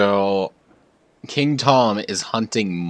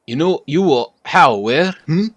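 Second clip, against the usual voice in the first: louder, stumbling fairy; flustered sidekick; 7 semitones higher, 9 dB louder than usual. Acted. Fairy stammering at the boy, mildly flustered. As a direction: trip over the words in a mock fluster.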